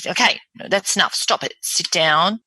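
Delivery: brusque, stern order. Shown as a demonstration. Coach showing how not to settle a patient, stern. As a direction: order them firmly, without nurturing. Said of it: "But I'm not saying".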